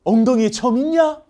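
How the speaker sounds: loud, high father asking; father questioning. Acted. Father at the reunion demanding of his son, loud and high. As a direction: call out eagerly to a long-lost son.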